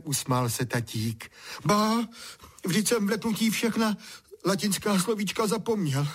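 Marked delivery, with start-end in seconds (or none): 1.7-6.1 high excited voice. A narrator's reading. Boy still shaken.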